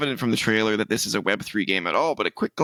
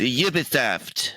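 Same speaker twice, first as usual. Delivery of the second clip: slow, badly faked French accent; terrible French accent; 2 semitones higher, much slower than usual. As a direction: drag it out in bad mock French. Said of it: "That was a terrible accent".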